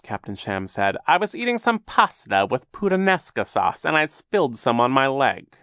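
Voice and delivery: oily villain voice. Acted. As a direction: spin a fake tale sweetly. Captain Sham tells his story.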